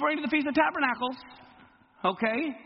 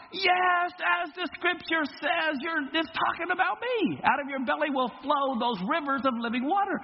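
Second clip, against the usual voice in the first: crying out; 5 semitones higher than usual. Retold or imitated. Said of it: "Yeshua cries out".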